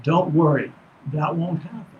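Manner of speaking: lightly voiced master; a hint of the inner master answering; master's voice. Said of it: "in the master's voice".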